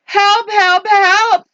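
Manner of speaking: high-pitched little truck's plea; hammed-up storybook distress; crying for help. A narrator's reading. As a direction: call out high for rescue. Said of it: "cried the Little Blue Truck".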